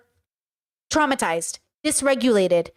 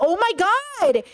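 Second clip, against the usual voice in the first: drawn-out, higher exasperated groan of the words; overwhelmed; 7 semitones higher, much slower than usual. Retold or imitated. Retelling the argument, reliving her overwhelmed, drawn-out exasperation. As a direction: let it stretch slowly like she's had enough. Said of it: "I was getting so overstimulated".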